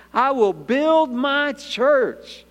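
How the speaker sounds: slow, weighty proclamation; solemn declaration. Acted. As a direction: declare it slowly, each word standing firm. Quoting Jesus' solemn declaration.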